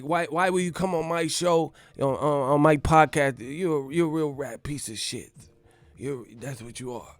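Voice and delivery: lightly mimicked angry boxer; offended scolding, only lightly put on; a hint of an affronted fighter; Mike Tyson. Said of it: "Let me stop this impersonation".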